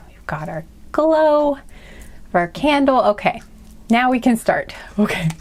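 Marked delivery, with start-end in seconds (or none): 0.1-3.0 slow, hushed whisper. Real, not acted. Candle lit, soft mood.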